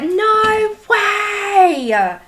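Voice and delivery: reliving opening the gift in mock shock; retold surprise. Retelling to viewers how she reacted to the gift, squealing disbelief. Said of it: "I was like".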